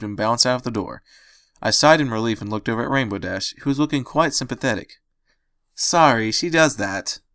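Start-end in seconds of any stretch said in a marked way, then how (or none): 5.7-7.2 consoling. Acted. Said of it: "she consoled".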